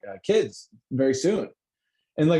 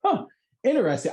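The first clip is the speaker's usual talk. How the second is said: mock intrigue; 11 semitones higher, 4 dB louder than usual. A host reacts to a demon superstition, mock intrigue. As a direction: sound fake-fascinated. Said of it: "which I'm like".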